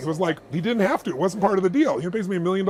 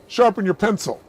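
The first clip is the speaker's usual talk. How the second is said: loud, higher bossy bargaining; pushy haggling; 3 semitones higher, 5 dB louder than usual. Retold or imitated. Wife pressing the camera clerk for a discount, loud and bossy. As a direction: demand a better price, pushy. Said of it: "she goes".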